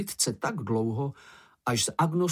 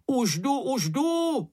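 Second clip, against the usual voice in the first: high, eager call to someone in danger; higher, lightly voiced urgent call; 13 semitones higher, slower than usual. A narrator's reading. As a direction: call out as you run to help. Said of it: "volal Mumínek".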